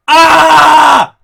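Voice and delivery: high, loud panicked yelp; alarmed scream. Retold or imitated. Family yelping as brother lifts the box.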